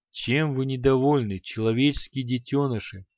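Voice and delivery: sarcastic. Acted. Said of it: "язвительно спросил демон Гала".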